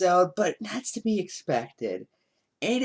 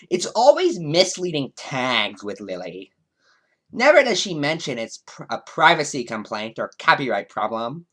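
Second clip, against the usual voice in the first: put-on a light Valley Girl lilt; 4 dB louder than usual. YouTuber reads a critic's comment, lightly Valley Girl. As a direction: read the quote like a breezy Valley Girl. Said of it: "made Space Mare sound like a Valley Girl".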